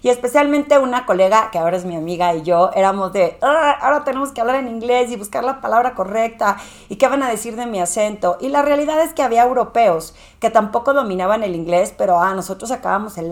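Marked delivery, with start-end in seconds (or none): 3.4-8.4 lightly voiced nervous fretting, slightly higher; anxious worry. Speaker voicing her past self before presenting, lightly anxious. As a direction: fret about being judged, a touch higher.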